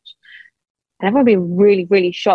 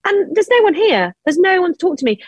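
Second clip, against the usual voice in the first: high, pleading exasperation at empty churches; half-reliving the frustration, pitch climbing; 10 semitones higher than usual. Retold or imitated. A widow-to-be finding every church locked, voice high and exasperated.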